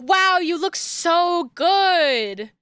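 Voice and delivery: mocking the characters' flattery; mock gushing. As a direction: mimic the fawning compliment. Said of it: "they're like".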